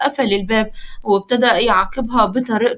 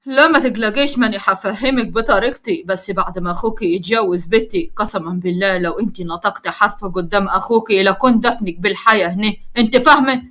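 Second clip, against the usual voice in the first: threatening; 4 semitones lower than usual. Acted. Father threatening daughter.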